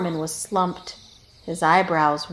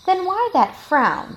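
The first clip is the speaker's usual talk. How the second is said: questioning snake; 11 semitones higher, 5 dB louder than usual. A narrator's reading.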